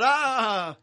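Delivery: grito de sorpresa fingido a medias, algo más alto; grito imitado. Retold or imitated. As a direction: imita el grito asustado de su esposa. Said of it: "se pone a gritar". (grito de susto imitado a medias)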